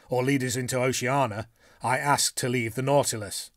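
a blunt harpooner, eager to plot; bluff Canadian harpooner. Acted. Harpooner urges his companions to talk, hearty and loud.

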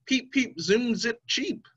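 high little chick chirps; chick peeps. Acted. Mama hen's chicks chirping their motto, high chick peeps. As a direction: chirp it like tiny busy chicks. Chicks' cheerful sound chant.

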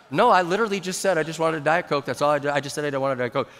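quick, lowering self-defence; mild protest. Retold or imitated. Pastor to an accusing beer drinker, mild protest. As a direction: explain hurriedly, keeping it low-key.

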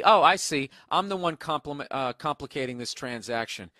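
lightly sarcastic quote with a punched opening; understated sarcastic comeback; retold sarcasm. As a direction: read it out as mock realization, then tail off. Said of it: "And then he says sarcastically".

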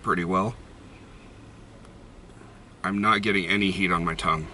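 talking around pipe stem; pipe in mouth. Real, not acted. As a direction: lips gripping pipe stem. Seen 1: Pipe stem held between lips while speaking, smoke visible.

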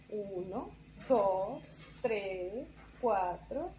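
light buzzy bee voice counting. Acted. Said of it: "la abeja cuenta con voz de abeja".

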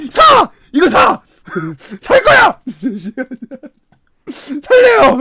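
frantic shouts. Real, not acted. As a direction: yell it like buying your way out. Frantically buying upgrade. (다급하게 높이 외치기)

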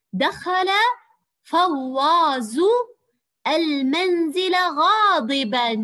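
slow, drawn-out classroom reading, ringing out on غاضبا; model sentence reading. Shown as a demonstration. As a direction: read it very slowly and loudly, stretching each word to the end of غاضبا. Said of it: "أقرأ الجملة وأقف على تنوين الفتح".

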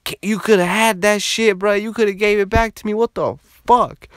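high, indignant outburst; mock furious scolding, dragging out the last words; hammed-up outraged bro; imitating pissed Leon. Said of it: "And then Leon got pissed".

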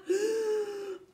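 high panicked call; crying for help. Acted. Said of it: "cried the witch".

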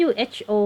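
"who" begun with an H sound, no W; pronunciation demo. Shown as a demonstration. Teacher showing students how to read WHO, H-sound pronunciation demo. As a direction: say "who" with a breath of H at the start. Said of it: "อันนี้ออกเสียง who เหอะนะคะ".

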